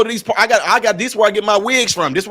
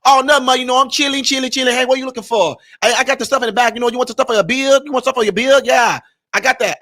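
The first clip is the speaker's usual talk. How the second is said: pitched-up, friendly Asian shopkeeper accent imitation; lightly put-on Asian accent, higher pitched; imitating Asian shopkeeper accent; 4 semitones higher than usual. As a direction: greet a customer like an eager Asian-accented store clerk. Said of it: "I know how to imitate people really well".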